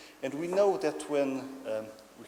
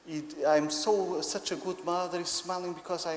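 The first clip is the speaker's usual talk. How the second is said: lightly voiced, higher proud mother; delighted mother; 5 semitones higher, 3 dB louder than usual. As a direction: coo proudly about your baby. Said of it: "the mother usually says".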